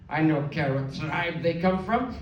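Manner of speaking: slow, lightly put-on old woman voice; confused grandma. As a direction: dismiss it slowly, unbothered. Grandma confused about Indians.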